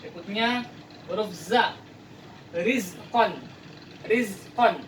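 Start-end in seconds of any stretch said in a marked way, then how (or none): 2.5-4.8 "Rizqan" with a buzzing z; Arabic zay pronunciation. Shown as a demonstration. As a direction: clear voiced z. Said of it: "harus beda dengan huruf za".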